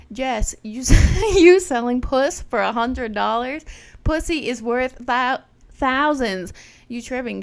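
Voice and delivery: loud, indignant scolding of a friend. Retold or imitated. Narrator scolding her friend Jess for selling cheap, loud.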